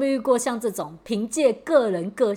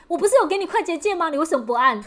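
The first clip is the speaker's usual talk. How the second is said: higher, faster mock-angry scolding; imitated boss rant; 8 semitones higher, faster than usual. Boss scolding employee for not using shortcuts, higher mock anger. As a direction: play the boss catching an employee, a touch fierce. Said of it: "很暴烈".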